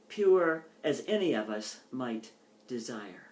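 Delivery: measured, unhurried poem reading. Acted. Poet reading her plantation poem to an audience, measured and unhurried. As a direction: let each image settle before moving on.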